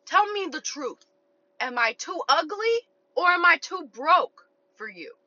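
slow, high, drawn-out mock earnestness; imitated pleading suitor. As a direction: put on his big question, stretching each word. Acts out man's earnest question.

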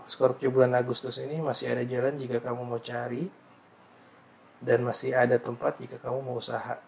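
formal horoscope reading; reading aloud. Shown as a demonstration. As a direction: read the forecast out formally. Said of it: "nih maksudnya". (membacakan ramalan)

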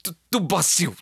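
a light Brazilian lilt; Brazilian-sounding accent. Retold or imitated. Host imitates a coworker who talks like a Brazilian, lightly accented. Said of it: "que hablaba como brasilero".

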